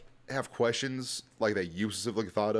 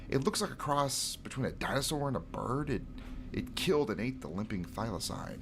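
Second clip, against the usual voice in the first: nerdy voice. Acted. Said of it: "So I gave him a really nerdy voice".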